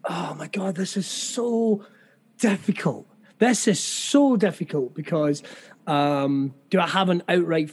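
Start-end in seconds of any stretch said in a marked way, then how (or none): 0.1-3.1 whispered exasperation. Real, not acted. Overwhelmed by a hard question.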